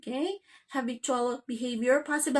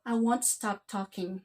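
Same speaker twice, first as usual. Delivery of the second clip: relaxed, unemphatic statement; 2 semitones lower than usual. Shown as a demonstration. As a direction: say it easily, with no emphasis. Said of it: "It's just very relaxed".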